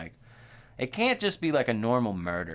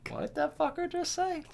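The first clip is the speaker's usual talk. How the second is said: high, amused incredulous squeal; squealing disbelief; 3 dB quieter than usual. Real, not acted. Reacting to his cohost's joke with a high, amused squeal. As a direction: shriek it out in amused shock.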